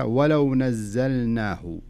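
"ولو نزلناه" very slowly, the lam of "ولو" clearly sounded; correct tajweed demo. Shown as a demonstration. Sheikh showing the student the right reading, lam clearly sounded. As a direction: say "ولو" with a distinct still lam, then "نزلناه". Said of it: "في قوله تعالى".

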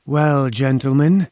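put-on slow, velvety greeting with a trace of foreign accent; velvety, slight accent. Inventor greeting his two visitors, velvety with a faint foreign accent. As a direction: welcome them silkily, faintly foreign. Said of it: "in a velvety voice with only the least trace of a foreign accent".

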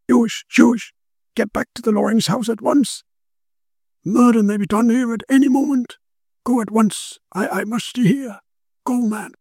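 high, urgent commanding voice of the occult detective; urgent Quinn. Acted. Quinn sending his friend away at once, urgent high command. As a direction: order him off without room for argument.

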